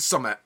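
summit for something; Yorkshire dialect. Shown as a demonstration. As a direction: say summit, short and clipped. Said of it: "you'd spell it S U M M E R apostrophe".

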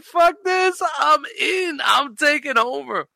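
imitating a cocky businessman seizing control, shouting; brash boss takeover. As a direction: crow it like a cocky boss grabbing the company. Acting Ray Kroc taking over.

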